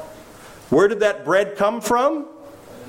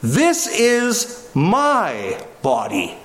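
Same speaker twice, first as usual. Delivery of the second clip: Jesus' words, solemn; much slower than usual. Acted. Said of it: "Jesus says".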